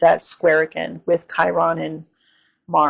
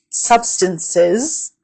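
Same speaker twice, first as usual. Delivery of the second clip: laughing retry. Real, not acted. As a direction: laugh and say it cleanly. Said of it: "I can't even speak right now".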